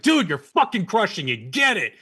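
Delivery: high-pitched gym cheer, acted out; imitated gym-bro encouragement; retold hype-up. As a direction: egg on a workout buddy, re-enacted. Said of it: "kinda hyping each other up".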